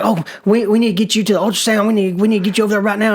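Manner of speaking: rushed, repeating retold urgency; urgent doctor. Doctor sends him for an ultrasound, rushed and urgent. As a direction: hurry the words like a worried doctor. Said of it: "he's panicking me 'cause he's like".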